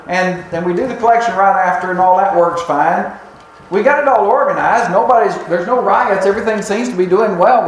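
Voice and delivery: lightly acted protest, reeling off the routine; mildly defensive churchgoer listing good deeds; surprised self-defense. Church members defending their order of service, mildly indignant. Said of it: "they would have been surprised".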